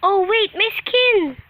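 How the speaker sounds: loud startled high cry; surprised shout. Real, not acted. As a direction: yelp in surprise. Surprised at changed skin.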